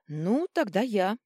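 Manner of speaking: bravely. A narrator's reading. Vitelya bravely volunteering to touch the artifact. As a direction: steel yourself and declare it. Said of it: "храбро заявила Вителья".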